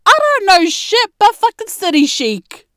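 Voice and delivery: loud, high sassy retort; mock retort. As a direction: fire it back at them. Snapping back at friends.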